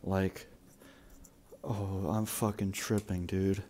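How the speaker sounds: high. Real, not acted. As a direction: talk like you're really high. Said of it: "I am so high right now".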